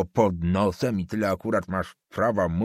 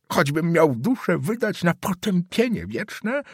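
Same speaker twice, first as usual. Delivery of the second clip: put-on higher, vehement old man swearing an oath; old councillor denouncing the student, higher and vehement; 6 semitones higher than usual. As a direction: denounce the boy to the family.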